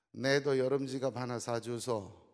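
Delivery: slow, blunt Gyeongsang dialect on 내도 and 사주소; Gyeongsang wife. Retold or imitated. Gyeongsang wife asking her husband, in dialect. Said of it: "경상도 아내가".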